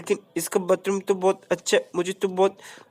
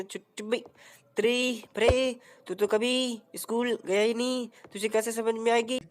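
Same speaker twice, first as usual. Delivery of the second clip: lightly voiced cheeky sidekick; Utri Bade voice; 2 semitones higher, slower than usual. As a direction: stretch the name slowly, like a know-it-all buddy. Answering character voice.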